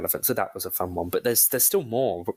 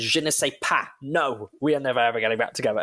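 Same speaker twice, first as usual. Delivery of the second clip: sassy. Retold or imitated. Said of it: "the most sassiest thing".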